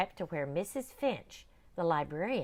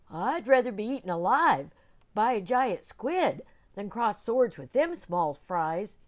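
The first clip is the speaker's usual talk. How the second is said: pirate whimper; 5 semitones higher, 8 dB louder than usual. Acted. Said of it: "Tug whimpered".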